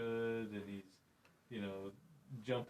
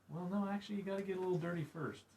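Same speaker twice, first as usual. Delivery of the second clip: high, louder punchy contradiction; emphatic correction; 10 semitones higher, 5 dB louder than usual. Real, not acted. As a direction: push back with energy. Emphatic correction of common view.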